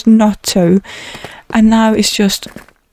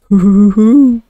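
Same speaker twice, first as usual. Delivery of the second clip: louder gleeful hooting laugh; gleeful hoo-hoo; 4 dB louder than usual. Real, not acted. Player gloating over his diamond block with a gleeful hoot. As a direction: hoot with delight.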